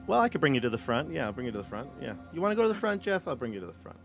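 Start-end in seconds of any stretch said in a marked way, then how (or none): none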